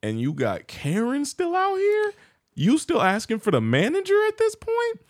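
high-pitched comic disbelief; incredulous. Real, not acted. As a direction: question it in exaggerated amazement, pitch soaring. Mock outrage at the Karen.

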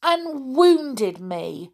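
high, slow, wounded complaint; hammed-up storybook reproach; hurt voice. A narrator's reading. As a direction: complain as a wronged doll. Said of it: "in a hurt voice".

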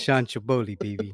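lightly hammed Italian wiseguy; mock mobster accent. Boasting to friends in a mobster accent. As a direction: swagger it like a mob boss. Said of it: "Yo, your accent just".

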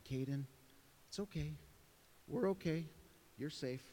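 put-on soothing a child. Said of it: "I'm speaking nice things to him".

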